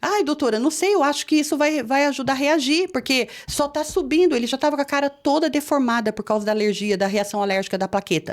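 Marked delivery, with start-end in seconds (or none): 0.0-4.4 higher-pitched, worried urging; anxious retold plea. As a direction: plead uneasily with a doctor. Mãe aflita argumenta com médica. (apelo aflito em voz aguda)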